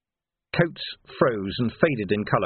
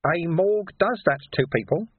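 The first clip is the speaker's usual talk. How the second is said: matter-of-fact, slightly raised character voice; 7 semitones higher than usual. A narrator's reading. Sweeper to Vimes beside the body, matter-of-fact. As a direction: state it as a simple fact. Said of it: "in a matter-of-fact voice".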